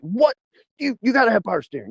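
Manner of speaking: high-pitched, imitated disbelief; incredulous. Organizer learns there is no power steering, imitated incredulity. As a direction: pitch it way up, as if you can't believe it.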